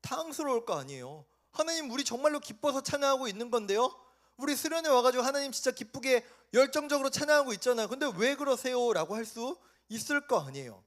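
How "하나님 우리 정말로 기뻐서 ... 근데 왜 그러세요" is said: flustered protest. Acted. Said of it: "당황스러워요?".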